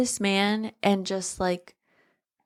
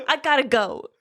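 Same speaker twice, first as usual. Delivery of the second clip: laughing; 5 semitones higher than usual. Real, not acted. Laughing as she repeats the joke.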